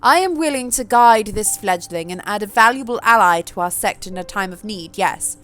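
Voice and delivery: put-on posh accent. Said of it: "give Sophie a slightly different accent".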